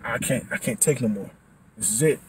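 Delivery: low, soft, worn-out voice; tired body voice. Retold or imitated. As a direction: give up in a quiet voice. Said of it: "your body's like".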